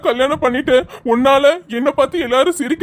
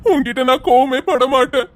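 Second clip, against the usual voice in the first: tender tearful apology. Acted. Husband tells his wife he now sees her love, choked up. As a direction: melt as you finally understand her.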